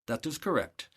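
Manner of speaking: put-on light, lilting Nepalese accent on "That is correct"; a gentle hint of a Nepalese lilt. Factory manager calmly confirms to the buyer, lilting Nepalese accent. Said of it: "in a very nice lilt that they have there".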